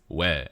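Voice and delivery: "we" said as "weh", with an E sound; standard Korean. Shown as a demonstration. Giving the Korean word for why, "we" as "weh". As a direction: say "we" with an open "eh" vowel. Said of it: "to say, like, "why" in Korean is".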